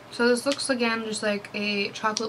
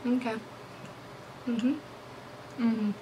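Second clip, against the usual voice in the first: chewing while humming agreement; murmuring through a mouthful; mouth full, chewing; 9 dB quieter than usual. Real, not acted. Seen 1: Closed mouth, puffed cheeks chewing; bitten chocolate wafer ball in hand.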